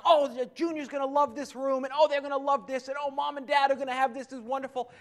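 gushing, mock-excited TV host; lightly hammed-up excited reveal host; imitating an excited host. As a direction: mimic a host thrilled with every room. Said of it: "he's just so excited".

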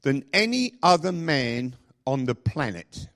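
measured, word-by-word emphasis; slow, weighty delivery for effect; deliberately slow. Shown as a demonstration. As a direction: say it slowly so each word lands. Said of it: "I'm gonna say this slowly".

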